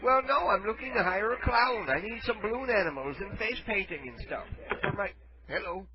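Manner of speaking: a hint of a feeble old caller; frail shaky old whisper. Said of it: "Well, I'm old".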